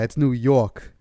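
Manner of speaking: slow New York accent on "York". Shown as a demonstration. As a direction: draw out "New York" like a local. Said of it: "How do we say it?".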